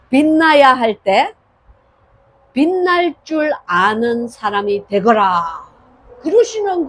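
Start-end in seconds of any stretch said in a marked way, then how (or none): 0.1-5.7 느리고 크게, 엄숙한 주님의 음성; 한 마디씩 천천히 무게 있게 전하듯. Retold or imitated. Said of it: "제게 말씀을 딱 하시는데". (주님이 새벽에 깨워 하시는 말씀을 느리고 엄숙하게)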